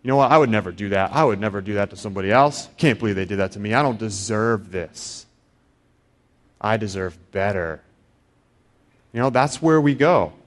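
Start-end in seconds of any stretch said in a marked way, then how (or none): 0.0-7.8 self-important grumbling. Retold or imitated. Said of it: "you're a little bit self-important".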